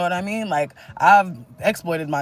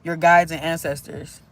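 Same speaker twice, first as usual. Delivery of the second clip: channeled message reading. Acted. Reads channeled messages to viewers.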